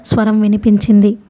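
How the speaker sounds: ordinary delivery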